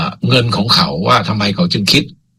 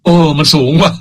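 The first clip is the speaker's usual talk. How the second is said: mock shock; 4 semitones higher than usual. Host reacting to the big fee, mock surprise. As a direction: gasp at the price, half in jest. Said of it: "ผมดูแล้วมีความรู้สึกว่า".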